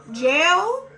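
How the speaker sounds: Jail? jumps up high and loud in disbelief; shocked, questioning echo of the word. Retold or imitated. Shocked at hearing lockup.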